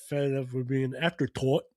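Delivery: lightly imitated Irish accent. Podcaster imitating a fed-up wrestler, mock Irish accent. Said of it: "in his Irish accent".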